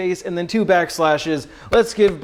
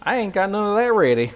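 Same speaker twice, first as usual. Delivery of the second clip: put-on Southern accent; 2 semitones lower than usual. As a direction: play a folksy North Carolina Southerner. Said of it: "this is the second accent".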